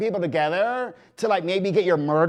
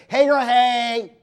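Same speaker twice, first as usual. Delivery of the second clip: excited greeting; 6 semitones higher, 6 dB louder, slower than usual. Real, not acted. Calling out greeting to cousin.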